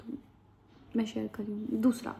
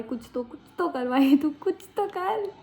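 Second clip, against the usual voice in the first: self-urging; 4 semitones higher, 3 dB louder than usual. Real, not acted. Bored on the train, she urges herself to act, rising high. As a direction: pitch jumps high, pushing herself. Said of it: "urging herself".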